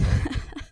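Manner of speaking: airy winded chuckle; breathless laugh. Real, not acted. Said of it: "trying to catch my breath".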